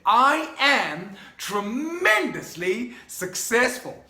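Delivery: slow, firm and sure, every word weighted; like you believe it. Shown as a demonstration. Coach showing the believing affirmation, slow and confident. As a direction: state it as a settled fact. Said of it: "You wanna say it like you believe it".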